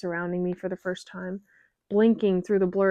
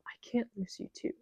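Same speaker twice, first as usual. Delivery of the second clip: tearful begging; 3 semitones higher, 6 dB louder than usual. Acted. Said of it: "swallowing back a sob".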